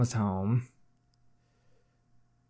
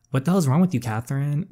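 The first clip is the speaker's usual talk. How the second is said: raised angry voice; angry mother; 4 semitones higher than usual. Acted. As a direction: scold her harshly. Mother confronts daughter angrily.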